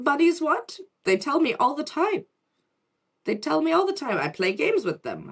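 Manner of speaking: put-on a little girl who finds it obvious; child explaining to her mother that bunnies talk; imitating child self. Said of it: "It's like".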